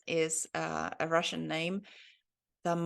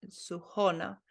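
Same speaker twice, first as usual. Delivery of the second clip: Suhona stressed on the middle O, su-HO-na. Shown as a demonstration. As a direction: lean on the O of "Suhona". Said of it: "the emphasis on the O".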